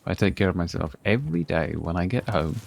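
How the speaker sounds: normal talking voice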